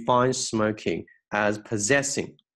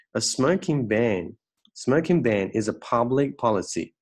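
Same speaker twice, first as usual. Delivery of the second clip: careful model reading. Shown as a demonstration. Teacher reading closely for students, careful model reading. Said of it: "把它来精读一遍".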